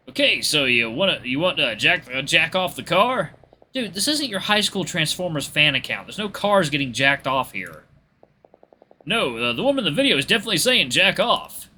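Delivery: lightly acted banter, pitch lifted; earnest confusion against mock indignation; bickering friends. Friends arguing over the tire video's wording, bickering.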